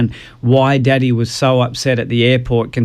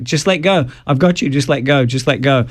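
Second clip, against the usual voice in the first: reassuring parent; 3 semitones higher than usual. Retold or imitated. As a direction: coax the child to let go. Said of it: "you're like".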